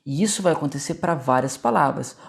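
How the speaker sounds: ordinary delivery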